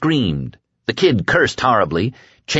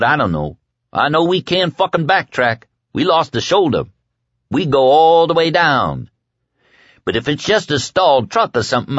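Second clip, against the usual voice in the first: high-pitched, ranting tough guy; furious Kid; 6 semitones higher than usual. A narrator's reading. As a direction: rant and boast in a high, angry voice.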